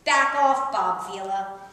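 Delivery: half-joking glare put into words; telepathic warning. Retold or imitated. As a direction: warn him off in a mock threat. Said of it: "shooting him a telepathic warning".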